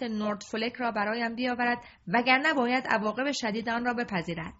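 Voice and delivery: loud, wrathful royal orders; king furious at his courtiers, loud; angry king. Acted. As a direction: rage at the traitor's name. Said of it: "با همان لحن تند".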